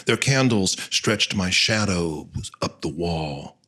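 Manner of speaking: solemn, measured reading of a dramatic monologue; deliberate verse delivery with pauses between phrases; poem recitation. Acted. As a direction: recite as the carved angel speaking, each line falling away.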